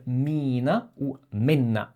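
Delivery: mina with a long i, menna with a short clipped e; 1 long i then short. Shown as a demonstration. Teacher contrasting mina and menna for a learner. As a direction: hold the i in mina, clip menna. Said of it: "avec un i long".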